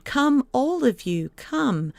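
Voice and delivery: high ringing call to all; a boy's summoning cry; crying aloud. A narrator's reading. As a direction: call out loud and high to everyone. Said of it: "crying aloud".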